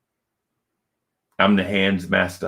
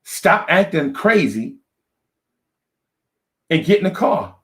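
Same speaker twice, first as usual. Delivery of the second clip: exasperated order; 9 semitones higher than usual. Retold or imitated. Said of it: "to shut up".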